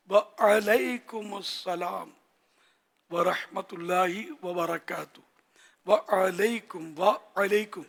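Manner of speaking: very slow "وعلیکم السلام ورحمۃ اللہ وبرکاتہ" with a stretched ʿain; slow correct reply. Shown as a demonstration. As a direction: draw out "وعلیکم" for practice. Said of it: "تھوڑا رٹا لگائیں". (مشق کے لیے کھینچ کر "وعلیکم السلام")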